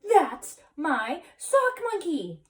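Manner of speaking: slow, high, loud word-by-word claim; indignant yell. A narrator's reading. Skippito claims his toy from Martians, emphatic yell. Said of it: "yelled Scipito".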